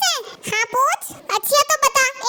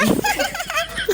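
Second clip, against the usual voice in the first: laugh; 5 semitones higher than usual. Real, not acted. Laughs at own joke.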